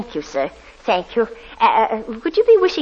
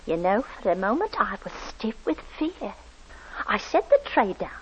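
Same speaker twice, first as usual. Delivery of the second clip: story narration. A narrator's reading. Landlady narrates the scene afterwards.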